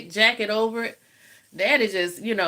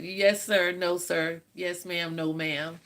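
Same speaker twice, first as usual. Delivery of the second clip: softer and softer dutiful answers; polite fading replies; 2 semitones lower, 5 dB quieter, slower than usual. Shown as a demonstration. A child answering her strict father, softer and softer. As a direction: recite them meekly, fading out. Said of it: "we don't talk like that".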